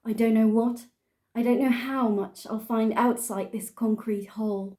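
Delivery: put-on English-accented poetry recital; deliberate mock-serious English accent. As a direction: read verse in a careful English accent. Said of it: "I'm gonna do it in an English accent".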